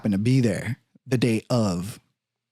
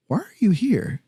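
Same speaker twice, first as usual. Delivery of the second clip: hushed whisper; detective whispering the question; 9 semitones higher than usual. Retold or imitated. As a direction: drop to a breathy whisper.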